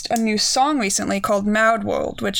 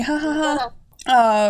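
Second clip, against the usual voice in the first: fake laugh; 3 semitones higher, much slower than usual. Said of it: "I'm so funny".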